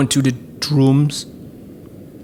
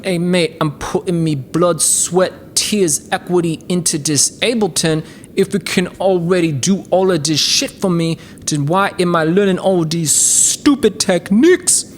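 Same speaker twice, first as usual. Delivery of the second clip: mock Aussie; 3 semitones higher than usual. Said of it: "a lot of you out there that is like".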